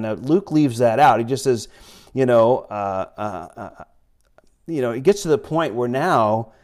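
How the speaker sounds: normal talking voice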